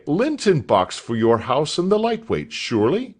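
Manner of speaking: a hint of a curious schoolmaster; questioning master. A narrator's reading. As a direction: probe the boy, kindly but puzzled.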